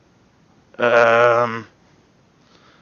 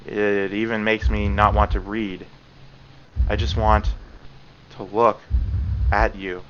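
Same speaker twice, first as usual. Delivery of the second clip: much softer, lower, breathless confession; lost in a feverish trance, murmuring; obsessed Yuri; 4 semitones lower, 7 dB quieter than usual. Acted. Yuri losing control.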